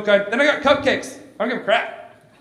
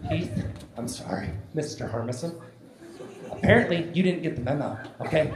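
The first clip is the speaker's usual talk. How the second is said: Meredith; 6 dB quieter than usual. Acted. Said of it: "She's like".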